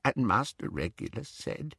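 grieving elf, face hidden; muffled. Acted. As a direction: speak into your knees, rocking. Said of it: "his voice was muffled but quite distinct".

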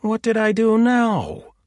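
high, slow plaintive whine; bleating. Acted. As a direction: whimper it like a wounded sheep. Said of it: "Axel bleated".

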